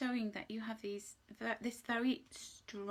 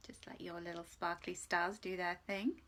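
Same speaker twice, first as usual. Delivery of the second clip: whisper; 4 semitones lower than usual. Real, not acted. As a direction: breathe the words out gently. Gentle card message.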